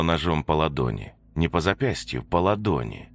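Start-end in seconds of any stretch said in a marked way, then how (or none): none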